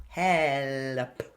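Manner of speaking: "Help" with a clear L gliding into the P; L into P cluster. Shown as a demonstration. Coach models the L-P cluster in help. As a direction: join the L and P in "Help". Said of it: "the L to the P".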